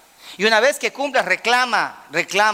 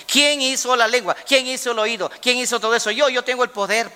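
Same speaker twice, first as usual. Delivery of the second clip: God's challenge; 5 semitones higher than usual. Retold or imitated. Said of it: "¿Y qué le dijo Dios a Moisés?".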